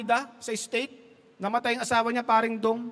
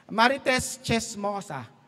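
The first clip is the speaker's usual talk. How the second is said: slow full name; 3 semitones lower, slower than usual. Shown as a demonstration. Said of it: "saying the joke name".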